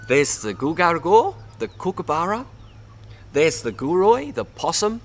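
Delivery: eager magpie calling out each friend; magpie apologizing. Acted. Magpie addressing the animals he wronged, eager and high. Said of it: "so he decided an apology was in order".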